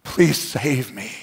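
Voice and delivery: hushed, broken-up plea, almost whispered; low, slow, breath-filled prayer of repentance; imitated crying out to God. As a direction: pray it very softly and slowly, begging. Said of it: "And he cried out to God".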